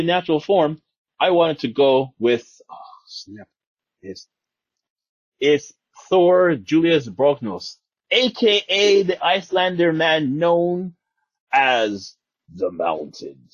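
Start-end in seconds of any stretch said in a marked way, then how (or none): 5.4-13.5 slow announcer reveal; dramatic reveal. Pretend. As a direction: announce the name grandly and slowly. Dramatic reveal of casting pick.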